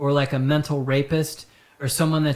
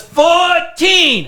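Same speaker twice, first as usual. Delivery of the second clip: high, loud drawn-out Asian-accent imitation; mock Asian-accented customer at full volume; thick mock Asian accent; 14 semitones higher, 11 dB louder than usual. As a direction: yell the haggle in a hammed-up Asian accent. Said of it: "she had a very thick, like, an Asian type thing".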